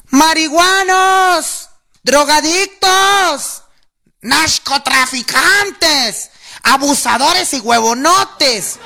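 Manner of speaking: drawn-out, high protest shouts; long, rising chant of insults at a rally; crowd yelling insults. Retold or imitated. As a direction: bellow each insult slowly like a street protester.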